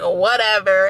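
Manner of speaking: a shrugging, careless whatever, imitated; mock dismissive; nonchalant. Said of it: "her attitude was so nonchalant".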